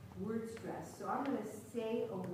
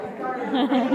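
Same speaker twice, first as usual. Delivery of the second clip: loud, through real laughter; laughing hard; 3 semitones higher, 14 dB louder, faster than usual. Real, not acted. Teacher sees ball land in face, laughing hard. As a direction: crack up while saying it.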